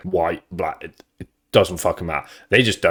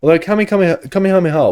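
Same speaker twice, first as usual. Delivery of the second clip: excited; 12 semitones higher, 6 dB louder than usual. Real, not acted. Excited pitch jump on Kamehameha.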